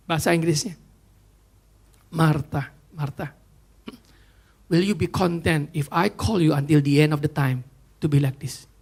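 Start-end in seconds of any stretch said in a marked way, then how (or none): 2.1-8.7 voice of God. Retold or imitated. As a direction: speak as God calling gently in the stillness. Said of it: "Roh Kudus berkata begini sama dia". (suara Tuhan, rendah dan lembut)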